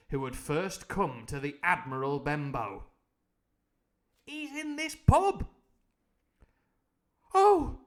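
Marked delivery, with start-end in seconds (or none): 4.3-5.5 shout. Acted. Jim shouting to Silver. 7.3-7.8 sudden loud high cry of alarm. Acted. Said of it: "I cried".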